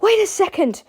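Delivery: high, loud protest; George. A narrator's reading. George protests the punishment, crying out. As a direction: cry out to halt him. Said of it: "cried George".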